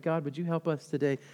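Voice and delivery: soft, low, humble prayer; hushed retelling of someone praying; retold prayer. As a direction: quote the prayer quietly, almost to yourself. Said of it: "he was praying in light of".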